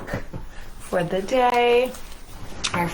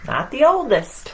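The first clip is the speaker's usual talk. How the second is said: lively picture-book read-aloud as the boastful sun; reading to children. A narrator's reading. Reader voicing the proud sun for children, playful storytelling. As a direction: read it to the kids, playing up the sun's swagger.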